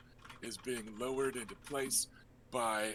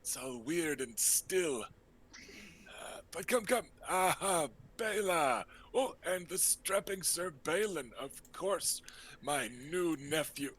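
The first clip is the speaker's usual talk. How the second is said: lightly raised, breezy uncle voice; flamboyant uncle; 3 semitones higher than usual. Acted. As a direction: play the charming rogue host.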